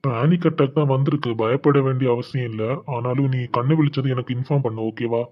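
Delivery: a doctor quietly reassuring after the checkup; calm doctor. Acted. Doctor speaking to the patient's family, low and soft. Doctor voiced by same actor.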